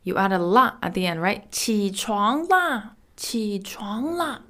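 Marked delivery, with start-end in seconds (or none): 1.5-4.4 slow, drawn-out call to wake someone; mildly insistent teacher demonstration; emphatic wake-up call. Shown as a demonstration. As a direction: call out a stretched wake-up without shouting. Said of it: "if you wanna shout at someone to wake up".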